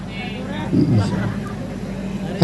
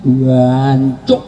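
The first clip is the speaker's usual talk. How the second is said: East Javanese curse; 3 semitones lower than usual. Retold or imitated. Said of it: "Apalagi Jawa Timur".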